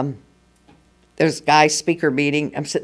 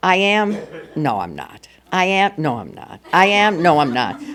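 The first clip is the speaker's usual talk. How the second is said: wavering. Retold or imitated. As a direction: flip from tentative claim to dropped-voice denial. Acts out wavering with herself.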